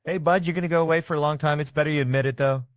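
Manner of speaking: high-pitched, buddy-buddy persuasion; coaxing interrogator. Acted. Detective coaxing a suspect to admit it, mock friendly. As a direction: talk him gently into admitting it.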